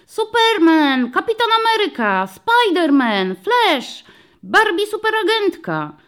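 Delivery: high, loud excited shouts; children shouting. A narrator's reading. First-graders shout hero names: high excited calls. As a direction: call out heroes like eager kids. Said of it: "dzieci wykrzykiwały".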